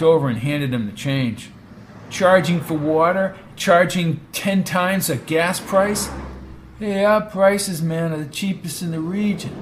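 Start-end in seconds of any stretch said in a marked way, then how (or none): 2.1-6.1 outraged. Acted. Brady outraged slow. 6.8-9.5 laid-back hippie. Acted. Attendant voiced.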